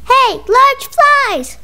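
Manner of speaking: slow high call. Acted. Calling out to flies.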